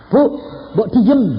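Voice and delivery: a preacher sternly shushing a weeping woman; stern hush. Retold or imitated. Preacher hushes crying woman.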